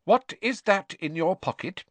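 high-pitched motherly interrogation; accusing question; stern demand. A narrator's reading. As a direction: confront the culprit suspiciously. Mother interrogating a caught son.

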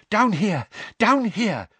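high, loud panted calls down the stairs; out of breath from running, calling him on; panting urgent call. A narrator's reading. Mister Weasley panting as he leads Harry down the steps. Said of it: "panted Mister Weasley".

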